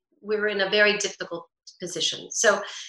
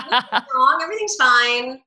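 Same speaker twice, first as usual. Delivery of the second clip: resentful grumble; 3 semitones higher, 7 dB louder than usual. Shown as a demonstration. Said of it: "a little resentment under my voice".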